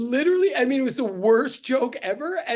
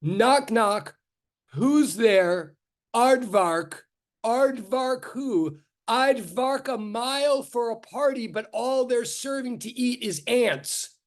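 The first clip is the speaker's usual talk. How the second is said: milk the pun slowly; knock knock joke; 3 semitones higher, much slower than usual. Retold or imitated. Lecturer reciting the chatbot's joke slowly for the class. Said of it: "It was like".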